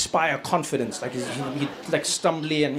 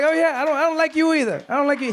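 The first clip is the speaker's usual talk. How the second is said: much higher, louder imitated Biden; sassy comeback, pitched up; mock Biden retort; 9 semitones higher, 3 dB louder than usual. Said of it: "He's like".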